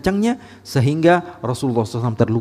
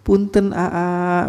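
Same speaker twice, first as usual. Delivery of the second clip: gentle Sundanese politeness; 2 semitones higher, much slower than usual. Acted. Bogor or Bandung local greeting someone, gentle and polite. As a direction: stretch the words out sweetly and politely. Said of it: "begitu ngomongnya lebih lembut".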